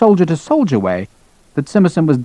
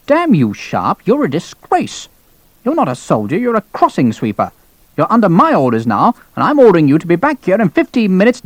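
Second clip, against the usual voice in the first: swooping, outraged dressing-down; indignant colonel; 5 semitones higher than usual. Acted. Colonel going red at defiant lieutenant, indignant. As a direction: scold with pitch leaping on key words.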